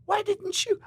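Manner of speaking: very high, loud, slow outraged squeak; incredulous, pitch shooting up on each question; stunned disbelief. Retold or imitated. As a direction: cry out in disbelief at the friend. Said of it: "I just went".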